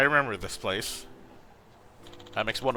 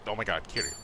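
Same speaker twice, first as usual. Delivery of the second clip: ordinary talk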